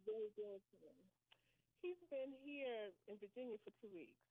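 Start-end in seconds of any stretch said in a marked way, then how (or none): 0.0-1.0 high earnest plea. Real, not acted. Praying for son.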